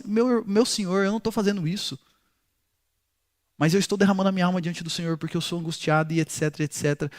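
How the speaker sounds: voz baixinha de quem se explica com respeito; resposta mansa. Retold or imitated. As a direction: responda baixo e submisso, imitando Ana. Ana responde mansa à repreensão de Eli. (explicação mansa, quase sussurrada)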